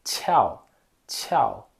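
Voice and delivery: tchau with a puff of air; aspirated qiao. Shown as a demonstration. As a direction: blow breath on tchau, lips smiling. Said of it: "O Q vai assoprar".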